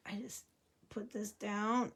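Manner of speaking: speaking while holding breath. Real, not acted. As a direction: talk with breath held in. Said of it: "can you tell I'm holding my breath?".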